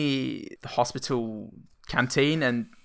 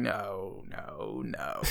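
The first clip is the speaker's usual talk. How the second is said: much softer, muted protest; quiet no; 4 semitones lower, 12 dB quieter, much slower than usual. Retold or imitated. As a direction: say it quietly, defeated. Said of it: "quietly going".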